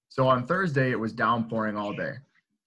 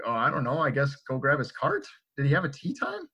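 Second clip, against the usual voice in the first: super confused. Retold or imitated. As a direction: play a puzzled teen, unsure what to do. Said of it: "We're just super confused".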